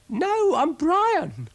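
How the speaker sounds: high, loud, slow indignant protest; indignant snail. Acted. Snail correcting Ermyntrude.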